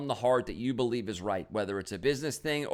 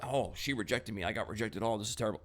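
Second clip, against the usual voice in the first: mock self-pity; 5 dB quieter than usual. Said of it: "am I gonna go back".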